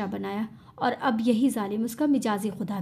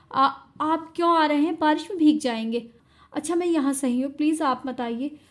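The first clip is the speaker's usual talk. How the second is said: frightened pleading; 3 semitones higher than usual. Acted. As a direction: try to stop him, scared. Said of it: "घबराते हुए उसे रोकने की कोशिश".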